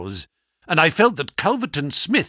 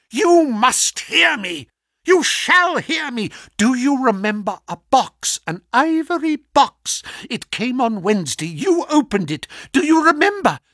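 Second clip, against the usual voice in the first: insistent raised villain voice; 5 semitones higher, 3 dB louder than usual. Acted. Smith presses dying Holmes.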